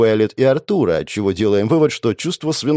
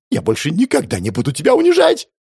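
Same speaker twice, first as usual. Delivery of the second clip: high, louder desperate cry; panicked plea; 8 semitones higher, 3 dB louder than usual. Acted. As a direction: beg in terror. Panicked boss promises.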